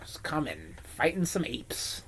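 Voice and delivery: lightly voiced old comics announcer; a hint of a hyped comic book host; Stan Lee. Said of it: "this was Stan Lee".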